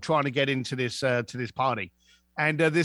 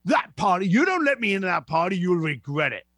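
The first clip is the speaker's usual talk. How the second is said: retold irate threat. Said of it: "he's starting to get irate".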